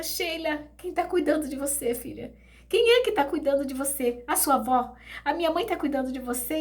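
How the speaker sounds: a mother desperate to know; anxious questioning. Retold or imitated.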